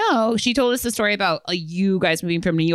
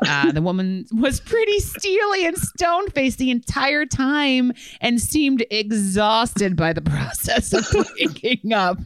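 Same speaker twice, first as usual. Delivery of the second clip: reading a story aloud; 7 semitones higher, slower than usual. Acted. Reads out listener's story.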